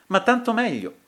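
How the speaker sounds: high, loud, oddly amused retort; strange amusement. A narrator's reading. Feverish duellist brushing off his friend's worry, strangely amused. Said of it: "riprese con lo stesso tono, ridendo sempre in modo strano".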